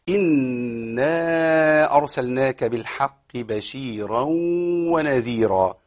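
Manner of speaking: slow measured tajweed chant; Quran recitation. Shown as a demonstration. Teacher reciting the verse for the class. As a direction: recite it with long drawn vowels.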